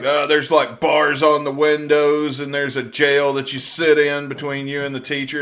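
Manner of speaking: overstate it like a scary legend; lightly hammed-up warning; mock horror-story rumor. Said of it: "the way they talk about it when you've never been".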